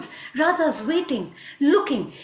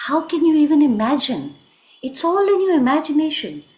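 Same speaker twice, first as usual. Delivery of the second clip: louder, emphatic denial; indignant protest; 3 semitones higher, 6 dB louder than usual. Acted. Krishna denies Radha's accusation, indignant. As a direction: push back hard, as if wrongly accused.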